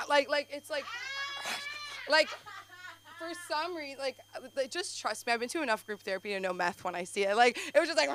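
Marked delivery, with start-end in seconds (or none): 0.9-2.0 high-pitched mock crazed noise; imitated crazed noise. Imitating a plastic-bag man on the subway, crazed high noise. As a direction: make a high, wordless manic noise.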